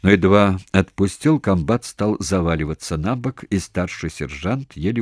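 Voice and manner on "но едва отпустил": usual speaking voice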